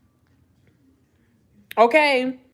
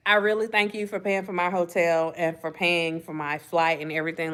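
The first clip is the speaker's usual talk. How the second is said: lower, softer, mocking the woman's polite letdown; mock sweet brush-off; 6 semitones lower, 3 dB quieter than usual. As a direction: read her excuse in a soft mock-sweet voice. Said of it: "voicing the woman's message".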